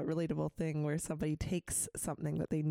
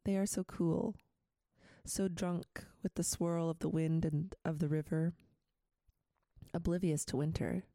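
poem reading. Acted. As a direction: read the poem gently, line by line. Reads a poem aloud.

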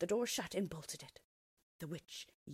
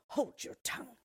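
hushed, harsh mock shout; a menacing hiss of a witch; witch's shout. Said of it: "shouted the witch".

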